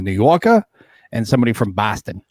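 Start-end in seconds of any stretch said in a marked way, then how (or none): 0.0-0.6 New Yorker with a dropped final R; demonstrating New York speech; New York accent. Shown as a demonstration. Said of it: "distinct difference the way they speak". 1.7-2.2 Boston with a flattened vowel; demonstrating Boston speech; Boston accent. Shown as a demonstration. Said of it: "distinct difference the way they speak".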